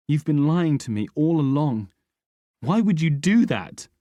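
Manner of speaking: high, loud angry cry; furious accusation. A narrator's reading. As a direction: hurl the accusation. Son accuses Rick of lying.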